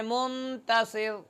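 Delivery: slow "मुंतसिर" with a light रा at the pause; slow recitation of "मुंतसिर", final रा kept light; recited example. Shown as a demonstration. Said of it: "इस रा को मोटा पढ़ा जाएगा".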